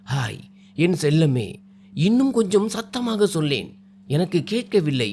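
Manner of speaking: teasing. Acted. Groom teasing his bride to repeat his name, playfully. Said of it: "Jayaram கேலியாக".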